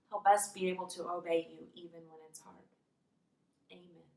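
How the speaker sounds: simple, subdued prayer voice; closing prayer. Real, not acted. Teacher praying with children after the story, subdued prayer.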